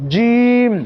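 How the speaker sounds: জিম struck with a firm, tight j; hard sound. Shown as a demonstration. Teacher showing students the hard জিম. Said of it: "এটা শক্ত আওয়াজে".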